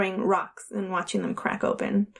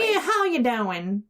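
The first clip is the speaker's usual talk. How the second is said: slow imitation Southern drawl; lightly put-on Southern phone greeting; southern accent; slower than usual. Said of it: "He develops a southern accent".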